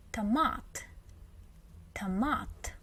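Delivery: "Tomat" as ta-MAT, light first syllable; weak quick "ta", stress MAT in "Tomat"; unstressed O as A. Shown as a demonstration. Teacher modelling the weak O, "Tomat" said ta-MAT. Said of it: "it becomes automatically".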